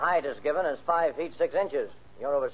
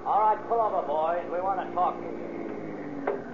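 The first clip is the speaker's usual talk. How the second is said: calling out; 2 semitones higher, slower than usual. Acted. Officer stopping the car.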